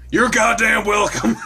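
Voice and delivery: high, loud mock bellow; mock shout. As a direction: belt the punchline at him. Steve's punchline retort.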